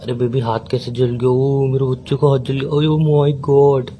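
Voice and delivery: hammed-up fussing over a baby; mock melodrama. Boyfriend fussing over a burnt hand, mock melodramatic. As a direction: overplay the sympathy for show. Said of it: "ये ना melodrama मत करो मेरे सामने".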